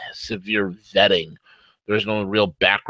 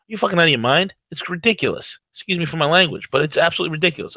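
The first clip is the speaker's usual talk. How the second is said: worked up; 6 semitones higher, faster than usual. Real, not acted. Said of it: "I'm wired".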